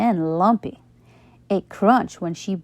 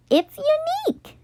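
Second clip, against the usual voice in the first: much higher, prim voice; proud Carla. A narrator's reading. Carla telling Nate her lunch is special, prim. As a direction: say it like a badge of honour.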